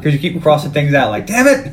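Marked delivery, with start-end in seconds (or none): 1.3-1.7 mock frustration. Mimics frustrated crossing things out.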